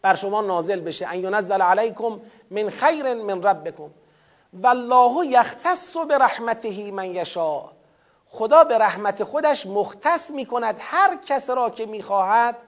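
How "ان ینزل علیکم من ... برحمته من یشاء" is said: measured Arabic recitation of the verse; chanted scripture reading; Quran recitation. Acted.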